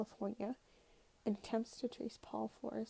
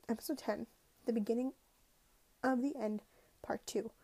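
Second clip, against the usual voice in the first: dramatic title announcement. Acted. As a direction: announce it like a trailer.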